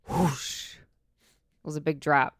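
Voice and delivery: ordinary talk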